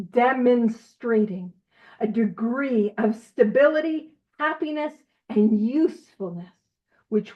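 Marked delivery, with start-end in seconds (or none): 0.1-1.5 demonstrating drawn out slowly and weighted; emphasized word. Shown as a demonstration. Group leader stressing demonstrating for her meeting, slow and weighted. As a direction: lean hard on demonstrating, slowly. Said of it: "I'm gonna emphasize this word".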